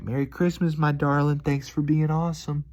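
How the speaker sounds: a hint of a sweet country waitress; country accent. A waitress sending a diner off, lightly voiced in a sweet Southern country accent. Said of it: "she did it with a cool country accent".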